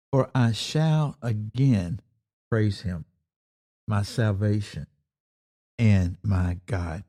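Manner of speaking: slow, measured psalm reading; solemn recitation with long pauses; scripture reading. Acted. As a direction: read the verse deliberately, letting each phrase settle. Reads the psalm aloud.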